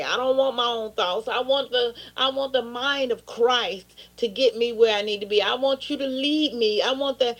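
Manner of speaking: pleading prayer to God, steady; earnest prayer. Acted. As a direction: pray it from the heart. Pastor prays aloud to God.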